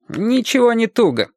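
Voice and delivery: quick high protest. Acted. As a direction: brush off the worry, protesting. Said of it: "запротестовал Аллан".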